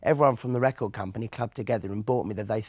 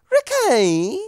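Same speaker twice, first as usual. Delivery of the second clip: much higher and louder yelled name, cockney style; mock cockney shout; 13 semitones higher, 11 dB louder than usual. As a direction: holler the name like an EastEnders row. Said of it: "And sometimes I say".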